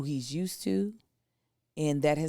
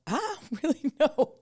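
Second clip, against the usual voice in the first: mock kid voice; 11 semitones higher than usual. Kid unsure about camp promise.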